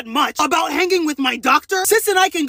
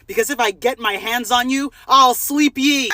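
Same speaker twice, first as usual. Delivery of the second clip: mock menacing threat; 5 semitones lower than usual. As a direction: drop it like a villain.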